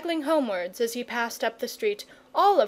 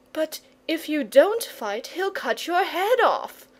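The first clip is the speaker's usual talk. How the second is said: higher, a mild gasp of alarm; alarmed boy; 5 semitones higher than usual. Acted. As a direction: blurt out the danger. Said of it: "gasped the boy".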